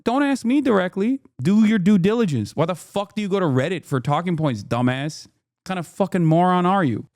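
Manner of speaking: mock the rude version, pitch up and yell it; shrill mocking tirade at a pundit; mock angry rant. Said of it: "Not just, like".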